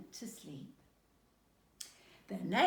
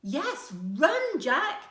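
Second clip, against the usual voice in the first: giggly; 8 semitones higher, 9 dB louder, much slower than usual. A narrator's reading. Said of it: "giggled Shosho".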